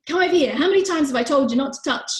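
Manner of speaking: high, loud and fast telling-off; angry parent. Acted. Parent lecturing a child who touched, loud and fast. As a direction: scold like a fed-up parent. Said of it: "We get angry at them".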